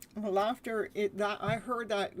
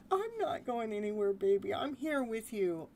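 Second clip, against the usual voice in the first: tender reassurance. Shown as a demonstration. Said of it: "take care of that child within".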